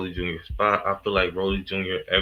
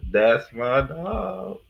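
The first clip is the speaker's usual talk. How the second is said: drawn-out hype; 6 semitones higher, much slower than usual. Real, not acted. Vlogger cheering on Knuckles to her viewers, slow and high. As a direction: stretch "That's my dog." out slowly and sing the "dog" up high. Hyping up a favourite cast member.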